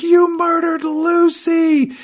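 high, slow mock-furious accusation; a falsetto, over-the-top accusation, drawn out; mock angry Mina. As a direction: shriek it as a hammed-up Mina. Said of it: "she's really angry".

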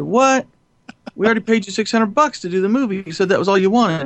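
sharp jump up in pitch, outraged disbelief; startled, indignant retort; indignant what. Retold or imitated. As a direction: retell the moment you couldn't believe the demand. Retold clash over cameraman's demand.

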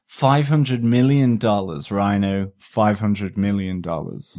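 mild mock-villain boast; Doctor Evil. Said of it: "have I just done a Doctor Evil there".

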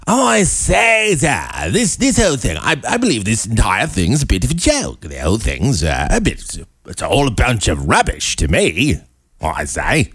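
hammed-up British accent with swooping pitch; fake British accent. Host parodying the singer's complaint, exaggerated British accent. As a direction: swoop up and down as a caricature Brit. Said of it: "that kind of fake British accent".

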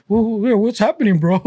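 lightly voiced dazed stoner; a hint of a spaced-out stoner. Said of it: "Stoner voice".

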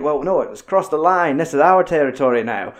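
mock tough cop. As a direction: bark it like a cop claiming his turf. Retelling movie cop's rant.

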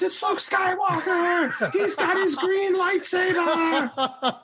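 put-on high, stretched-out excited kid squeal; Andy. Dad imitating his son spotting Luke, thrilled high yell. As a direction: imitate a four-year-old crying out in delight. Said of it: "And then Andy goes".

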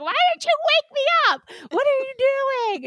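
very high squeaky panicked voice; high-pitched mock panic from the girlfriend; startled girlfriend. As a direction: shriek it like she just woke up late. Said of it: "she's like".

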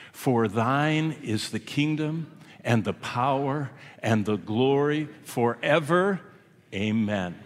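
slow, reverent prayer recitation; slow recited prayer. Acted. Preacher leading the congregation in the Lord's Prayer, slow and reverent. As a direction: pray it slowly and solemnly, word by word.

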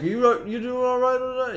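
high, slow, innocent voice; innocent girlfriend voice. Retold or imitated. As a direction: play it sweet and innocent. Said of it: "she's like".

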